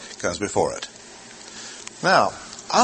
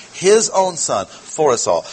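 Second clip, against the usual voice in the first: "His own" lifted, then "for us all" stressed; emphatic stress; 3 semitones higher than usual. Shown as a demonstration. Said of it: "double underline means emphasis".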